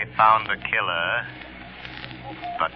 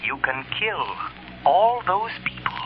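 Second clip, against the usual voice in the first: hollow, echoing voice from nowhere; eerie Shadow voice; 10 semitones higher than usual. Acted. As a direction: speak as an unseen ghostly presence.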